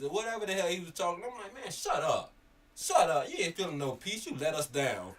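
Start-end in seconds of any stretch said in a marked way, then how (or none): 1.5-5.1 loud, higher scolding; upset fan. Retold or imitated. Fan scolding the player who let them down, loud angry. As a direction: tell him off, shut him up. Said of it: "I'm so upset with him".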